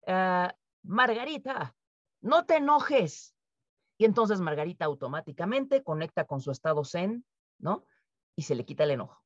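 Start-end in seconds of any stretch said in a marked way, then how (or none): 0.1-3.4 slow, drawn-out patronizing calm-down; dismissive calming. Pretend. Boss telling Margarita not to get angry, slow and dismissive. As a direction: brush off her anger slowly. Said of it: "llega tu jefe y te dice".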